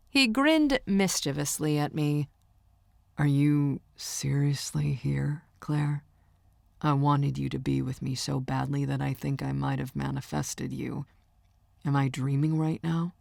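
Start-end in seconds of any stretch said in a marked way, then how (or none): 3.2-13.1 slightly lowered, hushed voice of wonder; lightly voiced boyfriend. Singer amazed his girlfriend came, lightly voiced and hushed. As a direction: lightly play the smitten boyfriend.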